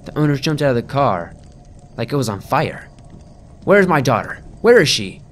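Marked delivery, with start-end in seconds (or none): 3.6-4.4 louder, higher frantic scream. Acted. Mother arriving at the scene, frantic loud scream. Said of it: "the woman screamed". 4.6-5.2 loud, higher frantic shout of where; screamed. Acted. Mother demanding her missing daughter, screamed. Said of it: "the woman screamed".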